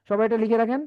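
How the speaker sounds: usual speaking voice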